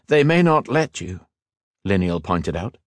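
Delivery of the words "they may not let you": raised, urging and admiring; urging elf lord. Acted. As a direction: urge him to lead, warmly. Liniel warns.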